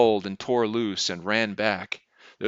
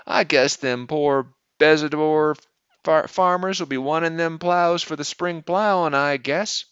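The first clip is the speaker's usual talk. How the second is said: put-on high, raised country boy's voice; 7 semitones higher, 5 dB louder than usual. A narrator's reading. Boy airing his composed sentence to his father, high voice. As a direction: pipe up high like a young boy. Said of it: "in his high voice".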